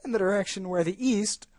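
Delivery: hushed whisper. Acted. Unvoiced whisper.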